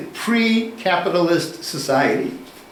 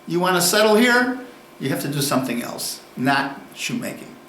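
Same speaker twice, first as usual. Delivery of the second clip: pre-modern townsman; 3 semitones higher than usual. Retold or imitated. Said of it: "the pre-modern mentality is".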